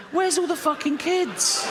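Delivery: high, slow, whining complaint; whiny pedo voice. Retold or imitated. Desperate pedo wails to nobody, high and whining. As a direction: stretch it out high and plaintive. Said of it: "they're going".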